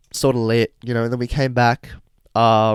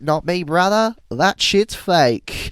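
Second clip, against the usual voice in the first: mock Ashton; 6 semitones higher, slower than usual. Repeat of Ashton's line.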